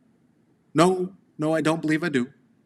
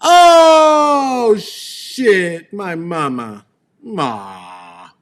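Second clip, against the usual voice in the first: choked up; 7 semitones higher, 10 dB louder, much slower than usual. Real, not acted. Son remembering his mother, crying out then fading. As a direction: let the grief break through.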